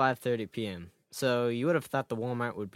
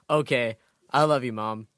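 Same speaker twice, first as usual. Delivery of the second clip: yelling across the room; 6 dB louder than usual. Acted. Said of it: "I yelled".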